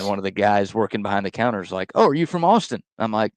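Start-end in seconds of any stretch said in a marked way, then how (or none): 1.9-2.8 lightly voiced chipper barista; a touch of a high eager barista voice; imitating barista, higher.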